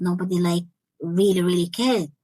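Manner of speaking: usual speaking voice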